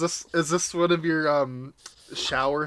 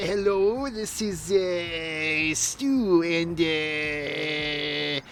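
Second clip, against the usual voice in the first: put-on a light, halting Canadian accent, louder midway; Canadian accent impression; 3 semitones higher, 6 dB louder, much slower than usual. Impersonating old Stu Hart calling about the television, Canadian accent. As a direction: play an old Canadian man fumbling on the phone in a Canadian accent. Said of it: "he had a Canadian accent".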